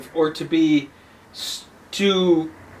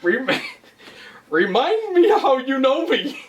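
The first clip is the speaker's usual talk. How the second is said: mock self-centered; 7 semitones higher, slower than usual. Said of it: "me going".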